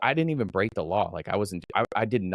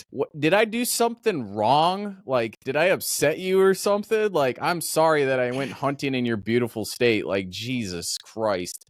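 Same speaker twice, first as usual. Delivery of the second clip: exasperated retort; 5 semitones higher than usual. Acted. Hunter retelling his retort to a checkpoint officer, exasperated. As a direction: protest like you've been wrongly accused, then sink into disbelief.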